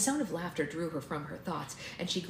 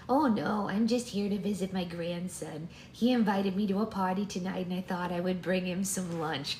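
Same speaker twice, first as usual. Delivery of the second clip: grandma voice; 2 semitones higher than usual. Acted. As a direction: explain sweetly as an elderly grandmother. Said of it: "I'm wondering if I should switch voices".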